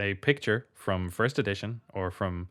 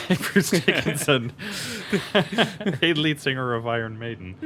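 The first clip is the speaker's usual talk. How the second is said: mock adoring fan; 6 semitones higher than usual. Metal fan calling to the lead singer, mock adoring. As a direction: call out to the singer as a giddy fan.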